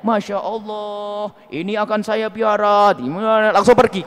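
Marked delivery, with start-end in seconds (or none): 0.1-2.9 slow, drawn-out admiration; slow, mock-enraptured praise of a gift; admiring the gift. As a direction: gush over the present and forget the giver. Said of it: "Anda hanya mengatakan".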